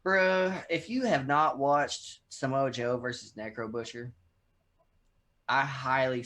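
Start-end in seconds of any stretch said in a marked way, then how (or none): 0.1-4.1 loud excited fan talk; really hyped about it; stoked. Real, not acted. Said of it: "I'm fucking stoked".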